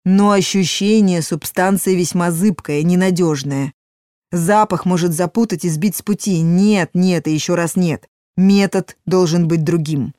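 громкий, наставительный голос старого мага; объясняй как мудрый верховный маг; голос верховного мага. Acted. Маг рассуждает. (верховный маг, наставительно)

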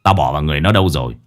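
put-on low voice of the old exorcist; weary old boss questioning his men; gruff-tempered old master, matter-of-fact.

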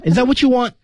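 high-pitched "is that what you want"; pitched high, words run together; high linked question. Shown as a demonstration. Teacher models film line for co-host, high question.

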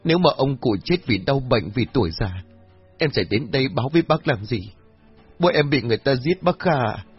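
high-pitched, distraught protest; anguished insistence. A narrator's reading. Daughter insists her father was murdered, anguished.

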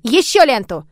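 loud, eager little order; demanding child. A narrator's reading. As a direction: demand it impatiently like a small girl. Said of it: "тут же потребовала у служанки".

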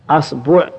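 أصبع said "asbu'", a then u; a-u vowels. Shown as a demonstration. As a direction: open on a, then "bu'". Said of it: "والضم والكسر".

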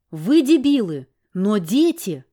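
put-on wife scolding the men about children; exasperated outburst. A narrator's reading. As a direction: hit them with it.

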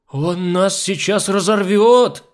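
high, loud, slow hysterical wail; hitting top C. A narrator's reading. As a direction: climb into a panicked squeal. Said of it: "Легко взяла верхнее до Кока". (истеричный визг на высокой ноте)

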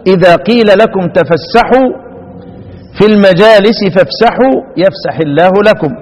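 measured, chanted recitation of the verse; Quran recitation. Acted. Teacher reciting the verse to the class in chanted recitation. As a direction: intone it like a reciter in the mosque.

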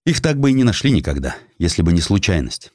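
usual speaking voice

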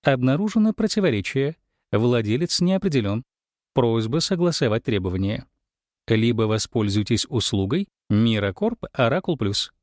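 soft metallic voice. Acted. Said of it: "нежный, слегка металлический голос".

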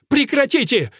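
отчаянный крик, намного выше и громче; закричать, чтобы остановить; вскричал. A narrator's reading. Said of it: "вскричал Мэрфин". (Мэрфин кричит на мастера)

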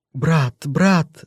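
high, wailing cry of brat; lamenting. Acted. Sister wails to her brother as he grabs her son. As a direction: wail to him in despair. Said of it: "запричитала женщина".

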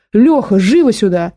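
drawn-out, urgent call; a contained yell to summon someone; yelling to a friend. A narrator's reading. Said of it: "перегнулся через перила и заорал".

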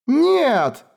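a high, loud, desperate scream. Acted. Lemil refusing to leave her sister, screaming. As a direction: refuse with everything you have. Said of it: "закричала Лемиль".

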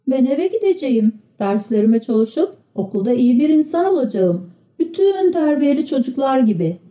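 a good little puppet stating good intentions; Pinokyo, dutiful. Acted. Pinokyo refuses the trip to study at school, lightly voiced dutiful child.

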